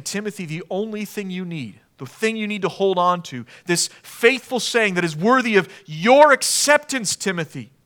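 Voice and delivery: put-on Paul urging young Timothy, building earnestly. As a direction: press the truth on him with conviction. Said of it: "Paul is saying".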